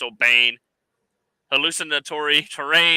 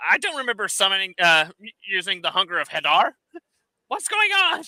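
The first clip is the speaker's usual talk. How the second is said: confused enemy voice; 4 semitones higher than usual. Retold or imitated. Enemy voiced confused mid-fight.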